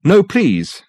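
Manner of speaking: sudden high, loud plea; urgent plea. Acted. Dirk stopping his secretary, urgent high plea. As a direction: stop her hand in alarm. Dirk stops her opening letter.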